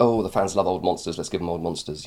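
ordinary talk, nothing marked

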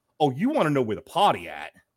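put-on suppressed hatred. Retelling a husband's reply to his wife; retelling with restrained hatred. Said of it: "dripping with, like, restraint and hatred".

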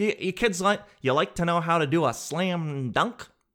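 dorky teacher voice with slam drawn out. Mid-explanation, the speaker lapses into the dorkiest teacher voice. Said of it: "like the dorkiest teacher of all".

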